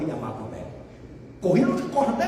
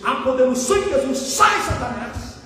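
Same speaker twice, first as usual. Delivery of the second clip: mildly raised preacher's cry; retold shout. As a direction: re-enact a pulpit command, moderately forceful. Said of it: "eu gritei".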